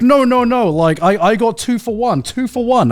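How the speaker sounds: imitating a drunk tourist yelling at the waiter. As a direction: squeal it like an angry tourist haggling. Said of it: "she was, like, shouting at this waiter".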